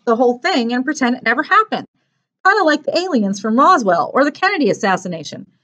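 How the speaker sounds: lightly voiced eager boy; earnest boy character, worried. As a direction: explain it as a concerned boy. Narrator voices Mark.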